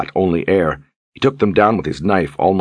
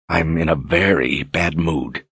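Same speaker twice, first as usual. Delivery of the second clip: through gritted teeth; slower than usual. Acted. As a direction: hold the anger back behind clenched teeth. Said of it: "he said through gritted teeth".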